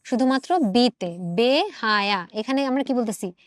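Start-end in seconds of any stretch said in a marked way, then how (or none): 1.3-2.3 বেহায়া with a pure close "e" in "be"; natural "e" vowel. Shown as a demonstration. Teacher showing the unchanged vowel, বেহায়া with close "e". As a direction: keep "be" unwidened in বেহায়া. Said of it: "এর উচ্চারণ স্বাভাবিক হচ্ছে".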